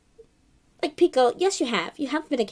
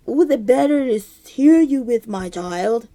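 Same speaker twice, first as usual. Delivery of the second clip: sly wolf; 6 dB louder than usual. Acted. Wolf answering in story.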